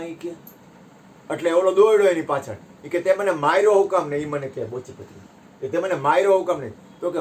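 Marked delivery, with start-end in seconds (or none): 3.0-4.2 loud, raised demand of why he was struck; angry demand. Retold or imitated. Spat-upon man grabbing the king's neck, angrily demanding. 5.7-6.7 loud, raised demand repeated; angry demand. Retold or imitated. Man holding the king by the neck, loudly repeating his angry demand.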